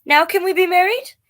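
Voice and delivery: little worm asking again, high; pleading worm. Acted. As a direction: ask it wistfully, stretched out.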